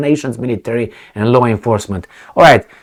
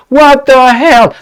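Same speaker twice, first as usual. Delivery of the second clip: higher, louder, slow outraged question; exasperated; 11 semitones higher, 6 dB louder, slower than usual. Real, not acted. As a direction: drag it out in disbelief. Outraged at the partners talk.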